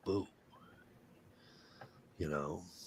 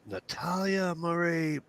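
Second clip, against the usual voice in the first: mock maternal warning, slow and pitched up; mother about to yell; 8 semitones higher, 6 dB quieter, much slower than usual. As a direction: imitate a mother warning her child by full name. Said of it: "she's ready, about to yell".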